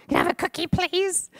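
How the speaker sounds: put-on high, sweet little girl asking. Girl at the door begging for a cookie, high sweet child voice. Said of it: "That's how she said it".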